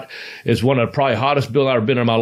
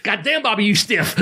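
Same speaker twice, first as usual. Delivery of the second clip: high-pitched imitation of a Japanese wrestler; Sasuke; 8 semitones higher than usual. Japanese wrestler protesting a hard kick to his opponent, imitated voice. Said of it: "I can't do a Japanese voice very good".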